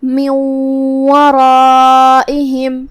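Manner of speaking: من merged into ورائہم with nasal; idgham with ghunna. Shown as a demonstration. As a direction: hum the nun into the waw. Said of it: "ایسے ادا کریں گے".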